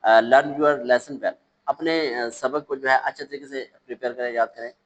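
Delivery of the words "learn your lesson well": slow read-aloud. Shown as a demonstration. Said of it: "well, sorry".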